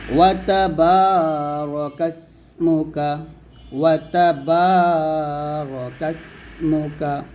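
each syllable of ওয়া তাবারাকাসমুকা drawn out; slow teaching recitation. Shown as a demonstration. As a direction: recite slowly for learners. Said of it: "teacher recites slowly".

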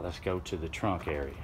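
ordinary talk

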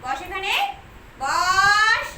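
sharp loud sit command to a pet; firm command. Real, not acted. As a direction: tell the pet firmly to sit. (পোষাকে জোরে বসতে বলা)

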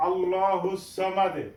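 আল্লাহুস with a thick L and rounded O; heavy L. Shown as a demonstration. Teacher introduces the next verse, heavy L. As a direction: round "Allaw" in আল্লাহুস, bounce the last D. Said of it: "ল উচ্চারণ করব মোটা করে".

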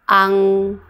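"ang" with a long ng ending; final-consonant drill. Shown as a demonstration. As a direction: say "ang" loudly and level, humming out the ng. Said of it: "七个尾音都发音看看".

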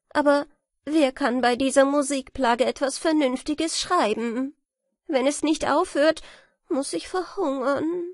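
a fretful scribbler fearing starvation; despairing writer. Acted.

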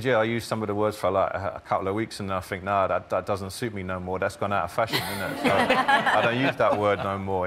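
lightly imitated London street accent, th as f; a young Multicultural London English speaker; Charlie. Linguist quoting a teenage lad, light London street accent. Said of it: "The lad in the film there, Charlie".

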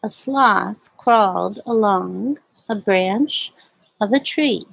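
slow, drawn-out story reading; slow read-aloud. A narrator's reading. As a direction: read at a sloth's pace. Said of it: "I like to read this book very slowly".

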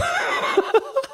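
short high laugh. Real, not acted. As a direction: burst out laughing. Laughs at the joke.

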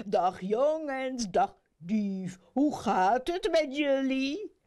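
drawn-out, playful hello; breezy jolly judge; jovial greeting. A narrator's reading. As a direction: greet the room like a merry rascal.

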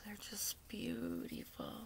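soft, hushed, near tears; tender whisper. Real, not acted. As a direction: breathe it out in quiet awe. Awed by the brushes.

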